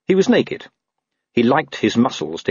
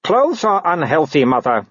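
calm; 8 semitones higher than usual. A narrator's reading. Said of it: "said Wulf calmly".

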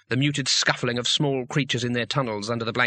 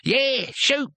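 miserable; 12 semitones higher than usual. Acted. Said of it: "said Cohen miserably".

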